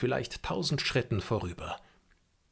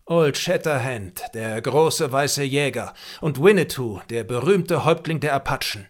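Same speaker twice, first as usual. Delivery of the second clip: excited exclamation; 4 semitones higher, 7 dB louder than usual. A narrator's reading. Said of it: "rief da der Häuptling aus".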